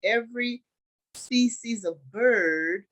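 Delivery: loud, deliberate scripture reading. A narrator's reading. Teacher reads the Joseph story to the group, deliberate scripture reading. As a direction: read it out slowly in weighty phrases.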